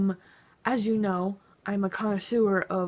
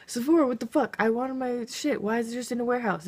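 mock complaint; 4 semitones higher, faster than usual. Complaining to Sephora.

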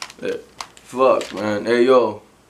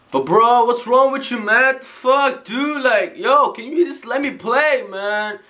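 mock exasperated; 6 semitones higher, slower than usual. Gamer complaining after rage.

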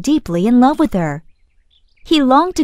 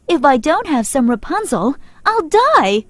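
angry; 5 semitones higher than usual. Acted. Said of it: "she said angrily".

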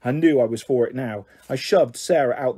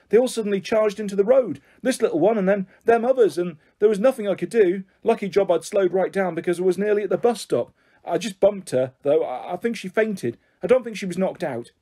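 a hint of a rattled driver, higher-pitched; lightly voiced bus driver; 5 semitones higher than usual. Bus driver explains himself to onlookers, mildly rattled. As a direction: lightly play the driver as shocked.

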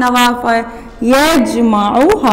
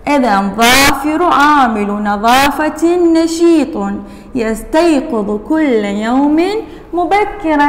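reading aloud; slower than usual. Acted.

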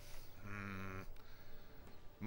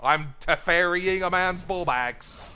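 excited; 6 semitones higher, 9 dB louder, slower than usual. Real, not acted. Hype continues.

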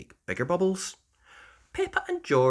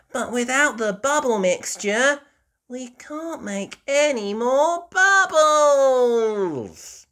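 sadly; 13 semitones higher, 7 dB louder, slower than usual. Acted. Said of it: "says Peppa sadly".

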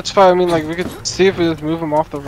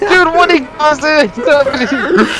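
laughing; 8 semitones higher, much slower than usual. Real, not acted. Laughing at lag chaos.

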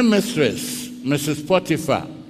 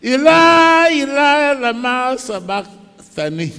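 high anguished cry fading; 8 semitones higher, 5 dB louder than usual. Acted. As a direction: call out from the cross. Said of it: "someone kai will be so".

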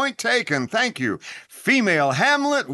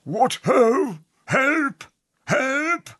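hammy cries for help; 3 semitones higher, much slower than usual. Acted. Hammy Polonius crying for help.

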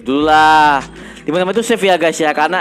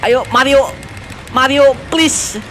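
pleading; 5 semitones higher, much slower than usual. Real, not acted. Begging game partner not to die.

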